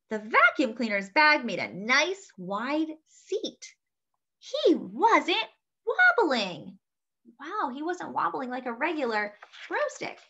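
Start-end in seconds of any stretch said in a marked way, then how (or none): 4.4-6.8 high, very slow wondering line; slow and marveling. Acted. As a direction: draw it out with delight. Narrator savours the moment.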